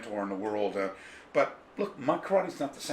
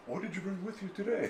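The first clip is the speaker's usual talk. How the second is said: voicing the bookseller; 7 semitones higher, 8 dB quieter than usual. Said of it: "And he said".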